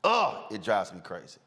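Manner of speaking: ordinary talk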